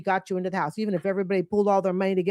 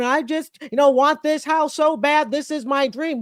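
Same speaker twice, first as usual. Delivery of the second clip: mock crying; 3 semitones higher than usual. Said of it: "crying and bawling, going".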